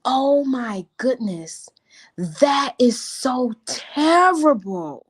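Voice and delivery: downplay bad news in a slow breathy hush; hushed whisper. Shown as a demonstration. Contrasting negative words, speaker whispers slowly and hushed. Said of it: "You see the difference behind the extremity".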